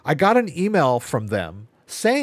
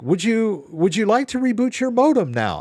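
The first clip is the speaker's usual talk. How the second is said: mock automated bot voice, pitched up; imitating the phone bot; 9 semitones higher than usual. Caller mocks the ISP phone bot, in a lightly pitched-up robot voice. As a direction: parrot the phone bot's prompt. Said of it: "I got their bot on the phone".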